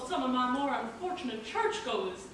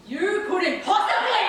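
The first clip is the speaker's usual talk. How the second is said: shocked cry; 6 semitones higher, 7 dB louder, slower than usual. Acted. Shocked realisation.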